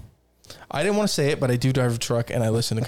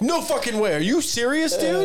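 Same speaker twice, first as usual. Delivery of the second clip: mock amazement; 9 semitones higher than usual. Playing along with the scam caller in pretend shock. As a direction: ham up the shock to fool the scammer. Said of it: "I'm having fucking fun with this dude".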